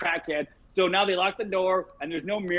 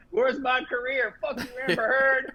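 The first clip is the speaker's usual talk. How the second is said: mock Johnny Depp ghost; 4 semitones higher than usual. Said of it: "you see Johnny Depp's ghost, and he's like".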